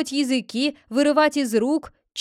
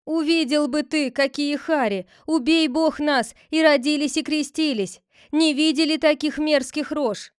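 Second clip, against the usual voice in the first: higher, louder fearful pleading; frightened plea; 4 semitones higher, 4 dB louder than usual. Acted. Villagers describe the hideous faces, frightened. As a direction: plead with horror in it.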